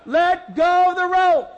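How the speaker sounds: loud, slow shout through laughter; laughing shout. Retold or imitated. Pastor yelling at the dragged boy, laughing shout. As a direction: yell it while cracking up.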